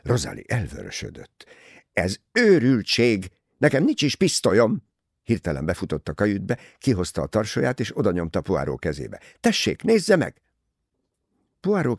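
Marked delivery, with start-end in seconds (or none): 1.9-4.8 loud, high outraged protest; indignant denial. A narrator's reading. Rosalie denying she owns a pistol, indignant. 9.4-10.4 high, loud indignant challenge; defiant challenge. A narrator's reading. Rosalie thrusting her bag at Poirot, defiant.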